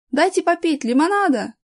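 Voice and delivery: put-on boy's cry. A narrator's reading. Boy calls to the stewardess for lemonade, crying out. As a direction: call out eagerly, pitch lifted. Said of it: "мальчик закричал".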